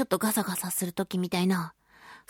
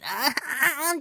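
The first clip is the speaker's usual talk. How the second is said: mock whining; 3 semitones higher, much slower than usual. Acting out itchy-throat misery.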